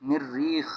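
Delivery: मिर्रीख as mir-reekh, r held double; doubled r. Shown as a demonstration. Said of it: "शद है".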